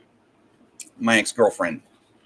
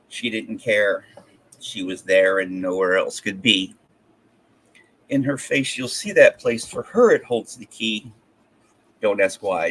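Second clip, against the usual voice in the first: measured, rhythmic poem reading; poem recitation; 2 semitones lower than usual. Acted. Poet reading an early college poem to a livestream, recited. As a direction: read your verse aloud in steady phrases. Reads own rhyming poem aloud.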